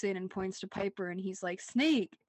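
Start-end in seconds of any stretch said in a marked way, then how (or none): 1.6-2.2 louder call of warning; quick mock alarm; mock warning shout. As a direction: call out the danger. Leo warning Piper.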